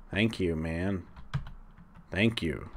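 dry sarcastic thank you. Acted. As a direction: thank him without meaning it. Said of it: "That was sarcasm".

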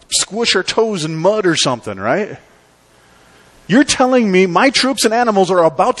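incredulous kings. Retold or imitated. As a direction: play the baffled kings who think he's crazy. Kings protest to the prophet.

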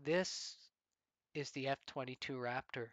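mildly proud, grand reveal; a touch of jubilant pride on the F twenty-two Raptor; proud announcement. Retold or imitated. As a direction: present it like a treasure, lightly voiced. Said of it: "with jubilation perhaps even, he declares".

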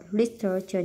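Literature with the first syllable stressed; Literature, weight up front on LIT. Shown as a demonstration. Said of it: "nhấn âm một".

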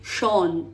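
"shon" with a clear Spanish O; "shon" with an open, rounded vowel; full O sound. Shown as a demonstration. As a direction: say "shon" as the learner's mistake, round O. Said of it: "pero no es O".

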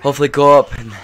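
nervous laugh. Real, not acted. Player hopes the elevator saves him, nervous laughing. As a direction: laugh through the tension.

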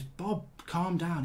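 slow and soft like talking someone down; a lad gently telling Bob to calm down; mock calming. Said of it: "one of the lads just goes".

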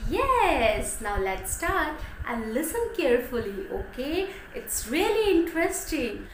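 put-on bright, lively teacher voice for little children; animated story-time teacher; storytelling to kids. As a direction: tell it like a kindergarten teacher.

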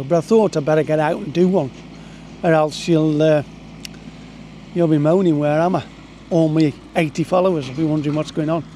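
tractor engine droning in the background; talking over a rumbling tractor nearby; tractor rumbling behind. Real, not acted. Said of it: "sorry about the tractor in the background".

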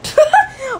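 high, short laugh; burst of laughter. Real, not acted. Laughing at sister during the game, amused.

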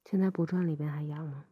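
gentle ear-cleaning whisper. Acted.

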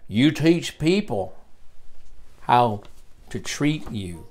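slow, light Texas Southern drawl. Retold or imitated. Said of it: "in his Texas Southern drawl".

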